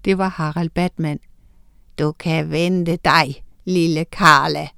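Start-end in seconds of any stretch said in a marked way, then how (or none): 2.0-4.7 low, slow menacing villain; said wickedly. Acted. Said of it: "sagde han ondt". (lav, langsom ond trussel)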